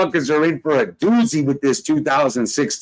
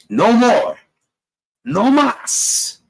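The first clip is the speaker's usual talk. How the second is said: emphatic shout; 8 semitones higher, much slower than usual. Real, not acted. Done with the bickering, shouting No more, No mas.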